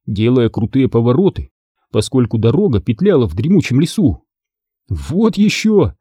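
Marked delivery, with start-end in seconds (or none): 4.9-5.9 exclaiming. Acted. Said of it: "воскликнул я".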